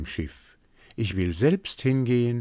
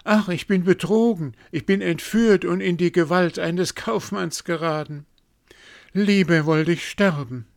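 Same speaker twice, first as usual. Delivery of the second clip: much higher and louder, panicked lament; frightened; 11 semitones higher, 6 dB louder than usual. A narrator's reading. Queen realizing she is abducted, panicked cry. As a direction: cry out in despair at being tricked. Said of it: "rief sie erschrocken".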